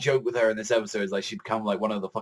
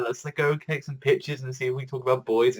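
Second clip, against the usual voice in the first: schoolgirl; 3 semitones higher than usual. Retold or imitated. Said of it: "acting like a little schoolgirl".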